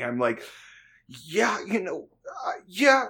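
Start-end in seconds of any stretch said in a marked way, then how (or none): 1.1-3.0 high, strained voice fighting back laughter; squeaky agreement with a mock straight face; holding back laughter. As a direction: act out trying not to cry laughing. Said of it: "I'm trying not to cry laughing".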